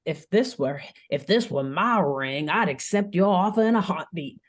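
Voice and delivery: put-on a light Southern accent; hint of a Louisiana accent. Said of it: "I can't do this accent forever".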